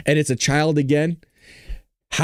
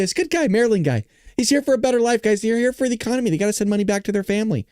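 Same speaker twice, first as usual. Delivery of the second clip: sarcastic mock quote; 4 semitones higher, faster than usual. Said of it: "I always say".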